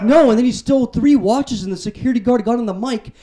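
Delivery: put-on exasperated girlfriend. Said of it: "And she's like".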